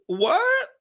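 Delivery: high, incredulous what; shocked what. Retold or imitated. Reacting to a client naming a budget cap, shocked. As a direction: gasp out the question. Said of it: "I was like".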